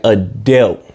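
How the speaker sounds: "adult" said as "a-DELT", New York style. Shown as a demonstration. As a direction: say "adult" like "a-DELT". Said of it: "Usually people from New York be on that".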